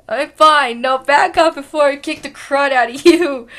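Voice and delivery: loud warning with a laugh at the end; tough threat. Acted. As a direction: threaten loudly, breaking into a laugh. Threat, louder retake.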